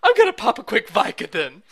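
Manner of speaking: laughing mock gruff House; cranky doctor, barely holding a laugh; House impression. Friend as Doctor House about pills, laughing. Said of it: "talk like this all the time".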